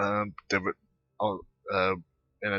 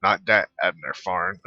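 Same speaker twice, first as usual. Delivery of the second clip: "that" pushed out louder to single it out; stress on that; 7 dB louder than usual. Real, not acted. Streamer correcting chat, hitting "that" loudly. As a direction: lean hard on "that" in "Not that Abner Farn". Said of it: "So that's why I say not that one".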